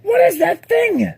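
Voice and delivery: loud, defiant kingly vow; furious turtle king. Acted.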